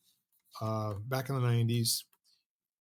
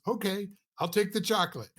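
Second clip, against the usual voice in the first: higher, put-on voice of a volunteer giving in; resigned volunteer; 7 semitones higher than usual. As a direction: give in with a sigh, higher and lightly voiced. Volunteer finally gives in.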